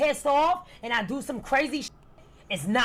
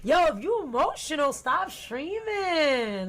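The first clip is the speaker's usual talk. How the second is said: lilting mock complaint, stretched at the end; mocking critics; 3 semitones higher than usual. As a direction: imitate whining critics, drawing out the last word. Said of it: "you go".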